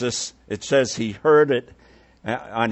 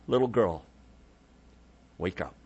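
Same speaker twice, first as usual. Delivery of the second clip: gently waking; 4 semitones lower, 5 dB quieter than usual. Retold or imitated. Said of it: "as simply as us waking up our children".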